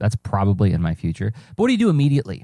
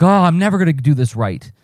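higher-pitched, mildly panicked self-talk; mild mock panic; 5 semitones higher than usual. Acting out panic over a slipped schedule, mildly fretful. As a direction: play a touch of overwhelmed fretting. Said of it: "do you panic and say".

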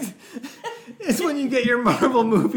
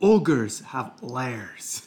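Shrek quote; 9 semitones lower, much slower than usual. Retold or imitated. Quoting Shrek line, deep slow.

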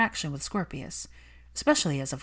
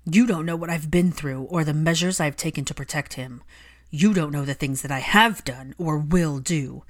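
furious Malfoy; 6 dB louder than usual. Acted. Malfoy furious at Hermione for mentioning his wife. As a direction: hurl it back at her.

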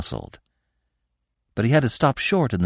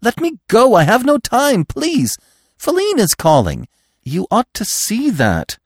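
high, loud, pleading cry; frantic impatience; 14 semitones higher, 4 dB louder than usual. A narrator's reading. Bambi begging the stag to release him, high and frantic. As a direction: beg urgently, voice pitched way up. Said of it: "beside himself with impatience".

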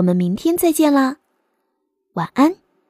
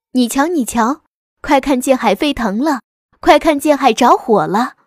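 excited crowd voices; 4 dB louder than usual. Acted. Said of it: "这儿那儿有人说话".

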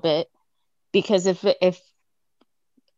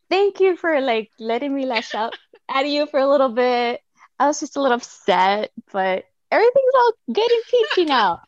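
higher, laughing through a sorry to honey; sheepish laughing apology; 4 semitones higher than usual. Retold or imitated. Wife laughingly apologizing to her husband, sheepish and high. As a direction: apologize through giggles, a bit embarrassed. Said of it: "I was like".

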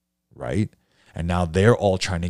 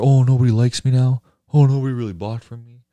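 mock dismay; 7 semitones higher, 8 dB louder than usual. Mocking a struggling painter's panic.

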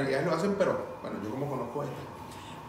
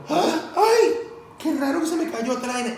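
high, ironic sugary apology; sarcastic polite voice; mock sweet politeness; 10 semitones higher, 5 dB louder than usual. Mocking exaggerated polite reply.

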